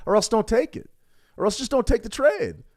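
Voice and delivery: high, laughing through the words. Real, not acted. Coach telling traders to skip doubtful trades, laughing. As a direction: chuckle as you push the point home. Amused by his own blunt advice.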